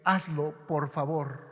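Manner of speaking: softly begging, a quiet supplication; soft plea. Shown as a demonstration. Preacher voicing a plea to God, softly begging. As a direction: ask it gently, as a humble request. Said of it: "Es una súplica".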